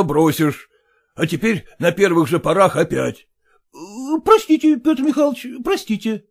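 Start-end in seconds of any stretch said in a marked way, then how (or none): 3.7-5.5 apology. Acted. Son-in-law begging father-in-law's pardon, high. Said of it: "протянул тестю руку". 5.6-6.2 softer apology. Acted. Son-in-law repeating his apology to father-in-law, quieter. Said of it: "протянул тестю руку".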